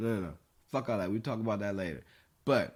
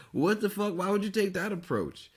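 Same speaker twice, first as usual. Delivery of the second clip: mock outrage; 8 semitones higher than usual. Mock outrage at someone's choice.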